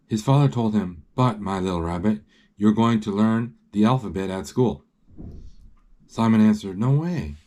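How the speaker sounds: measured read-aloud storytelling; story narration. A narrator's reading. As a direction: read the picture book out clearly.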